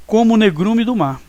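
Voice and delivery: "como o" run together as "comu" in "como o negrume do mar"; vogais fundidas. Shown as a demonstration. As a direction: melt the O after "como" into its last vowel. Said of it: "você fala assim". ("como o" pronunciado com os dois O fundidos numa sílaba)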